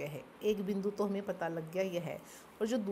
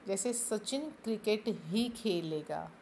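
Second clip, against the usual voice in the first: क्रिकेट ही said slowly with weight on क्रिकेट; stress on क्रिकेट ही; slower than usual. Shown as a demonstration. Teacher showing students which word ही stresses, slow and deliberate. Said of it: "ही शब्द ने क्रिकेट पर बल दे दिया".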